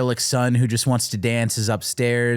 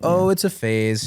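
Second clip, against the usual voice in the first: put-on old Italian grandma; 6 semitones higher, slower than usual. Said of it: "Lorraine is hilarious as the grandma".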